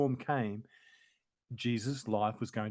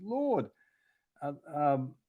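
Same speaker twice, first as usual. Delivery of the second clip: crying out; 5 semitones higher than usual. A narrator's reading. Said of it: "they cried".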